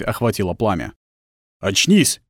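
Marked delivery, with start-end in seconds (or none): 1.6-2.2 властный окрик, голос выше; скомандуй властным голосом; властно. A narrator's reading. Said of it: "сказал чей-то властный голос". (властным голосом)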